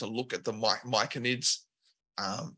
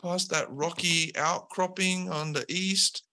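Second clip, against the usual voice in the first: slacker henchman; 5 semitones higher than usual. Acted. Lackey telling the heroes where the king lives, high and offhand. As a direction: toss out the directions without caring. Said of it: "He's like".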